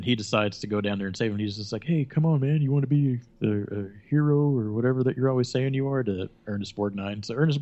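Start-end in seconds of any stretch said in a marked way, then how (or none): 1.8-6.0 louder, higher retold urging; mock goading. Captain to a reluctant crewmate, retold loud goading. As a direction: push him as if egging him on.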